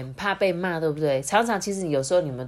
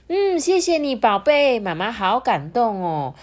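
higher-pitched, moved thank-you; touched mother; 6 semitones higher, 5 dB louder than usual. A narrator's reading. Mother thanks her baby for the words, touched.

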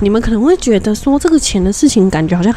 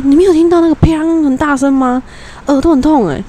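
urgent; 8 semitones higher than usual. Retold or imitated. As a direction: insist to grandma that the bang hurt. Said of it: "然后我就说".

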